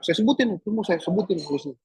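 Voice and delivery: usual speaking voice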